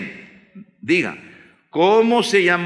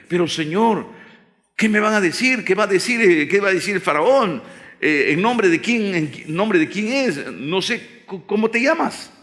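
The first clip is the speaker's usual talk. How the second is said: worried Moses; 4 semitones higher than usual. Acted. Moses doubts before God.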